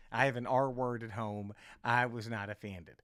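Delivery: low, gently acted reassurance; earnest reassurance. Audience member reassuring him.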